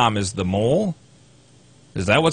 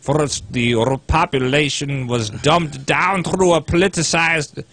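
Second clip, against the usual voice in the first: put-on failed Russian accent; 3 semitones higher, slower than usual. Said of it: "That's like a drunk Ebenezer Scrooge".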